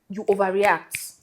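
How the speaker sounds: whisper. Real, not acted. Emphasis whisper.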